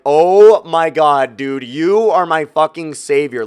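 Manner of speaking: slow, drawn-out gushing gratitude; relieved thanks to the rep; overjoyed relief. Retold or imitated. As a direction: stretch it out like he saved your life.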